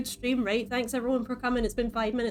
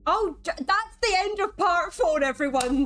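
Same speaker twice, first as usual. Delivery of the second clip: mock sign-off; 7 semitones higher than usual. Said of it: "mock stream sign-off".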